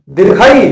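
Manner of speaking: दीर्घई with the vowel ई drawn out long; long vowel demo. Shown as a demonstration. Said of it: "हो गया दीर्घ स्वर". (दीर्घ स्वर का उच्चारण)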